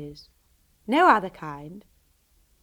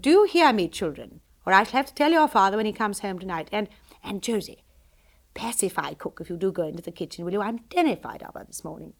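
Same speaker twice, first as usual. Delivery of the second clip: a hint of a cheerful society lady, a touch louder; lightly voiced breezy mother; 4 dB louder than usual. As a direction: tell her daughter with easy delight. Mother giving orders.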